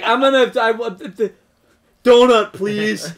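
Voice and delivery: high, fumbling tourist order; dumb American tourist. Retold or imitated. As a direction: play a hapless American blurting an order. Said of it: "Dumb American".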